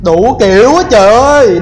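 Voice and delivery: loud, alarmed outburst; yelling over the gunfire; shouting orders over battle. Real, not acted. Swarmed by enemies in battle.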